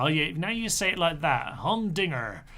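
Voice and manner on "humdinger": humdinger in a mock American accent; terrible American accent. Shown as a demonstration. Streamer trying out how American humdinger sounds, mock American accent. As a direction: say humdinger with a hammed-up American R at the end. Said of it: "you know, terrible American accent".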